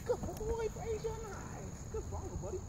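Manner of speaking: very high, soft sing-song praise for the dog; cheering praise. Real, not acted. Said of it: "I'm gonna cheer him on".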